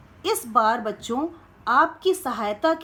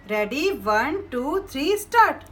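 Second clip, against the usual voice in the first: excited countdown. Acted. Countdown to open the box.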